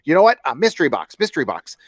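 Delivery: lampoon a self-satisfied filmmaker; mocking the director. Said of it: "and he's all".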